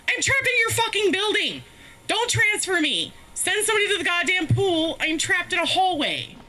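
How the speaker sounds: insist, she's done being transferred; trapped swimmer pleading with the YMCA to send help; exasperated plea. Retold or imitated. Desperate second call for rescue.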